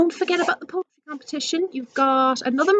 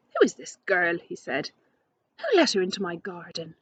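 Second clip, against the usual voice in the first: angry king; 7 semitones lower than usual. Acted. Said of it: "The King of Arabia was angry".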